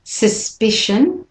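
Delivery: slow "suspicion", stress on "spi"; model pronunciation. Shown as a demonstration. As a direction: say "suspicion" slowly. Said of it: "And again".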